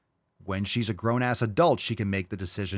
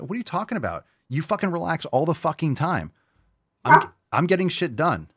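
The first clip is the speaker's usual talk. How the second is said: high-pitched, exasperated comeback; indignant retort; 7 semitones higher, 4 dB louder than usual. Acted. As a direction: fire back at the critic, indignant. Irritated retort to imagined critics.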